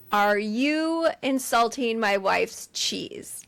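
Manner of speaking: slow, deliberate mock confrontation; drawn-out mock indignation; offended challenge. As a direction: imitate an affronted husband, word by word. Retold offended husband challenging his brother.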